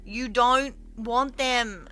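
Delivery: slow, loud telling-off; exasperated scolding. Real, not acted. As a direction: scold a pet slowly and emphatically. Scolding cat over nuggets.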